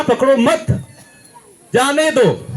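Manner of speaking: मत held up, a clear pause, then जाने दो falls; pause after मत. Shown as a demonstration. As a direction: stop at the comma after पकड़ो मत. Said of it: "में कोमा थोड़ा सा".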